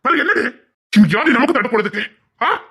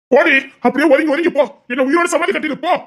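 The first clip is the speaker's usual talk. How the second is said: higher, raised angry voice; hurt lover snapping go away; bitter outburst; 5 semitones higher than usual. Acted. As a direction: lash out at her. Man angrily telling her go.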